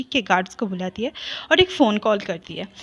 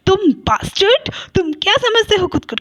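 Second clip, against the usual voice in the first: angry insult; 7 semitones higher than usual. A narrator's reading. Sister insults the nephew.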